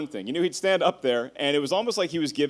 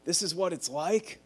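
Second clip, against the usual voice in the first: inner dread; 6 dB quieter, much slower than usual. Retold or imitated. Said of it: "I remember thinking".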